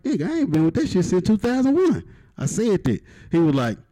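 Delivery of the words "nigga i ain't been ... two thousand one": mock outrage. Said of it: "I like".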